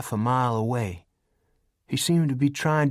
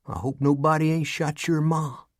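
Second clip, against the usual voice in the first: worried; 5 semitones higher than usual. Acted. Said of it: "He said it in a worried voice".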